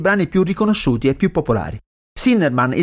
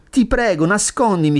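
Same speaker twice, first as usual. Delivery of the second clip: pleading; 4 semitones higher than usual. Acted. Acting the sinner's plea.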